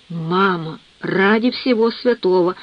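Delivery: ordinary delivery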